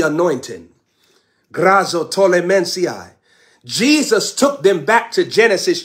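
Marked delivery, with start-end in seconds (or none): 1.5-3.1 speaking in tongues. Real, not acted. Preacher breaks into tongues.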